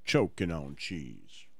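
very low, slow, dropped way down; deep voice. Pretend. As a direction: drag it out deep. Deep chant alone.

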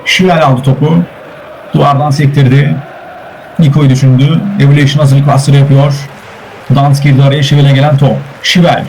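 football commentator's running call; steady, projected sports commentary; live play-by-play. Real, not acted. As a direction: call the match as it unfolds.

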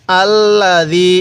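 আল্লাযী with a soft, light দ sound, slow; soft dal. Shown as a demonstration. Teacher showing soft dal in আল্লাযী, slow. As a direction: say আল্লাযী slowly, keeping the দাল soft. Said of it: "দালটা নরম করে উচ্চারণ করব".

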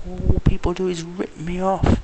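retold outburst. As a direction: drag it out, fed up. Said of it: "I said".

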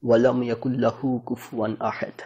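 ওয়া লাম ইয়াকুল লাহু কুফুয়ান আহাদ with tongue held up on the final দ; আরবি accent. Shown as a demonstration. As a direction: close আহাদ against the palate like an Arab speaker. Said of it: "এরকম একটা sound আসে". (জিভ তালুতে রেখে আরবদের মতো আহাদ)

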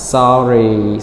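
sorry let down at the end; falling tone on sorry. Shown as a demonstration. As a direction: drop the tone through sorry. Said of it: "so it goes down".

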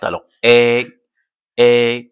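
"E" held long as an open è, mouth wide. Shown as a demonstration. Teacher shows E with grave accent, open-mouthed è on "E". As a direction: sustain "E" as a level, open è. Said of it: "avec la bouche ouverte".

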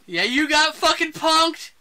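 high, loud, drawn-out jeer; hammed-up prankster's gloat; gleeful taunt. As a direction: crow it slowly in mock triumph. Gleefully amplifying the co-host's quote.

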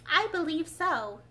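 thoughtful. A narrator's reading. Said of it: "Alice replied thoughtfully".

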